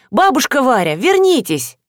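mild urgent cry; calling out. Acted. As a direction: call her back, without a full shout. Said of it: "выскочила из сельпо и закричала".

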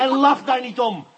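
sharp, high, loud reprimand; stern rebuke. Acted. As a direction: snap at her to stop laughing. Inspector scolds laughing suspect.

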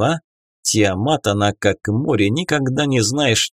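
usual speaking voice

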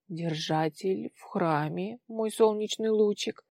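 slow, gentle reassurance; calm the girl tenderly; soothing. Acted. Aunt soothing her niece. (ласково, успокаивающе)

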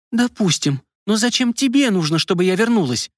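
high, angry outburst; shouting. A narrator's reading. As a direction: lose your temper and cry out. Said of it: "закричала Марина, выходя из себя".

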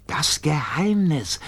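unvoiced, slow conspiratorial whisper. A narrator's reading. Biggest Giggler hiding under the stairs, slow whisper. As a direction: hush it out slowly like a secret.

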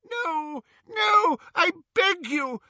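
high-pitched, wailing begging; sobbing plea. A narrator's reading. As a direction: beg through sobs. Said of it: "sobbed Xenophilius".

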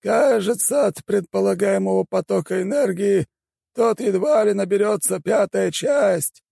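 high, thin elder voice, slow and musing; a strange high old shaman weighing the spell. A narrator's reading.

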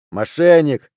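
sudden loud accusing cry; indignant outburst; angry accusation. Acted. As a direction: hurl the accusation across the table. Enraged loser accuses the winner.

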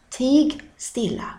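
Tig stilla said slowly, Tig lifted high; slow, stressed. Shown as a demonstration. Teacher hushing the class with Tig stilla. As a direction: draw out Tig stilla as a stern hush. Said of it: "var tyst".

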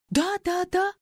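quick high repeated yes; eager quick yeses; rapid. A narrator's reading. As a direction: rattle it off. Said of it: "зачастила Фаина".

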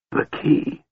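gasped. A narrator's reading. Dying mage to the historian, gasping. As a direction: gasp it out weakly on little breath. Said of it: "Raistlin gasped".

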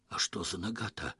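a hushed, nervous question; whispered question. Acted. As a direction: ask it under your breath. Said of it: "шёпотом спросил Лёха".

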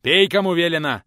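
very loud gruff order; teacher growling at the boy to drink; growled command. Acted. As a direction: roar the order. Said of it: "рыкнул в ответ учитель".

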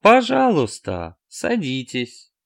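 loud then fading, very slow; broken robot voice. A narrator's reading. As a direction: stretch it like a dying machine. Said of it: "Голос то затухал, то гремел".

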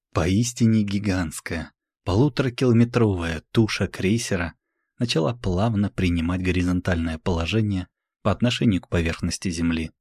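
plain reading voice

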